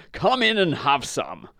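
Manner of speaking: lightly voiced welcoming horse; friendly horse. A narrator's reading. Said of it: "said the friendly horse".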